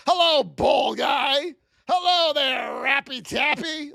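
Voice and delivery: slow, shouted jeer at a streamer; mock a heckler's taunt; hammed-up troll heckling a streamer; mock rude troll greeting. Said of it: "I never once go in there and say".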